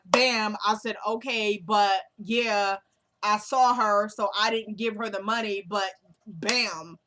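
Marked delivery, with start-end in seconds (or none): 0.0-0.6 lightly imitated comedian, louder catchphrase; Kevin Hart. Host demonstrates his habit to viewers, lightly imitated comedian. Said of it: "He'll be like". 1.1-7.0 lightly imitated comedian, punchy phrasing; a light take on a comedian's bit; Kevin Hart. Host demonstrates his routine to viewers, lightly imitated comedian. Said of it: "He'll be like".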